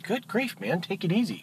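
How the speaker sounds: high, soft duck voice; taken-aback duck, high and quiet; protesting duck. Acted. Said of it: "The duck's like".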